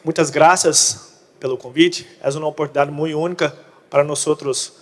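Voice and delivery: Portuguese speaker attempting Spanish; Portuguese mixed with Spanish words; portunhol. Real, not acted. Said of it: "hablo portunhol".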